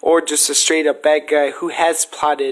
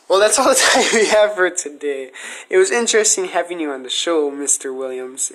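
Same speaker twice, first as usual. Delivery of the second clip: a touch of hammed-up announcer, cracking up; mock host sign-off; 2 semitones higher than usual. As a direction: wrap the show like a cheesy presenter. Mock talk-show sign-off.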